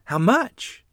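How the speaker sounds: eager, happy mother asking; happy question. A narrator's reading. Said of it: "Mother asked happily".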